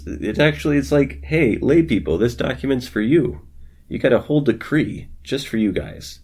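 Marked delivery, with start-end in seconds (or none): 1.2-6.2 excited mock announcement.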